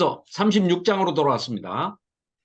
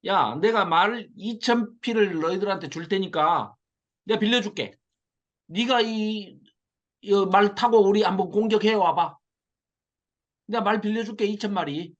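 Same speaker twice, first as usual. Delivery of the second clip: mocking taunt. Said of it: "뭐라고 조롱을 하느냐".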